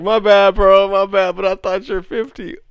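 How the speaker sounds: high, loud imitation of an apology; mock apology. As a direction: blurt a teasing apology in his place. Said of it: "He also gonna apologize, like".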